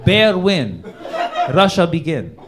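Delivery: slow, loud broken-English epic narration; mock Putin screenplay. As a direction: intone it like a grand film trailer. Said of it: "He's like, writes a full-on screenplay".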